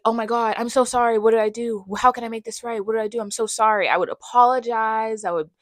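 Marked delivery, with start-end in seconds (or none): 0.0-3.9 mildly panicked people-pleaser, words tumbling out; frantic over-apologizing. Retold or imitated. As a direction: retell a flustered string of apologies. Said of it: "over apologize".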